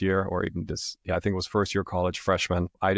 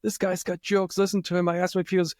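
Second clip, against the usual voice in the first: very high, imitating a guy cracking up; mock amused laughing; 10 semitones higher than usual. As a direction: squeal it to a friend like it's hilarious. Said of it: "the guy starts laughing his ass off".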